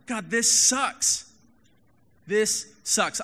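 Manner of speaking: high, loud, slowly dragged complaint; mock angry prayer. Pastor voicing an honest angry prayer, loud and slow. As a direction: vent at God for real. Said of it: "Be real".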